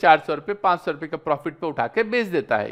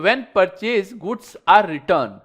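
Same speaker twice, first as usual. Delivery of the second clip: slow dictation; much slower than usual. Shown as a demonstration. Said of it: "reads definition slowly".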